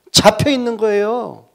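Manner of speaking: 높고 크게 외치는 설교; 회중을 향해 열을 올려 묻기. Acted.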